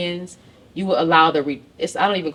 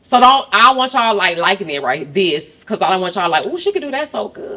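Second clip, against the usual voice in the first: Mississippi accent; 5 semitones higher, 5 dB louder than usual. Shown as a demonstration. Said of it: "So I had to do a Mississippi accent".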